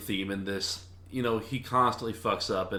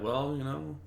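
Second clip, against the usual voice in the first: lightly mock her, pitched up; 5 semitones higher than usual. Magician laughing off his assistant's accusation, mocking. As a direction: imitate a dismissive, mocking brush-off. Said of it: "he, like, mocks her".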